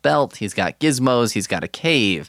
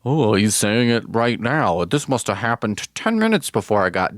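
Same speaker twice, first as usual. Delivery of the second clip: imitating listeners. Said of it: "do people wanna think, like".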